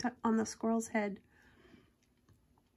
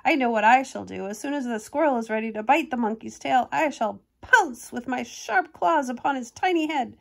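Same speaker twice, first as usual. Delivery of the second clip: a lightly voiced bird, louder and plotting; scheming little bird; 6 dB louder than usual. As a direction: play the cheeky bird hatching a plan. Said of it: "the little bird said to himself".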